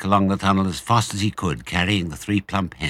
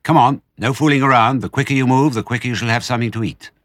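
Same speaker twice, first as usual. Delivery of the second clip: raised, urgent voice, quickening at the end; ordering; 5 semitones higher, 5 dB louder, faster than usual. A narrator's reading. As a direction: hurry the children along. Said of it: "he ordered".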